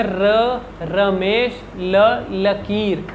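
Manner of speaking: र and रमेश trilled, then ल and लकीर with a still tongue; r versus l contrast. Shown as a demonstration. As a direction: contrast the rolled र with the steady ल. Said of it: "जीभ vibrate होती है".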